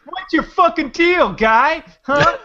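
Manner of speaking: high-pitched hammed-up challenge; mock confrontation. Heckler challenging friend for being nice, hammed-up aggression. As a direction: pick a pretend fight.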